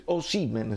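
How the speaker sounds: "Osimhen" as northern television says it; northern TV pronunciation. Shown as a demonstration. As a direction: pronounce "Osimhen" like a northern TV commentator. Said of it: "televisioni del nord eccetera". ("Osimhen" come nelle televisioni del nord)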